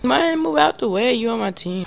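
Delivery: high, loud complaint at a teammate; exasperated yell. Real, not acted. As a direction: scold a teammate who is blocking you. Yelling at teammate in way.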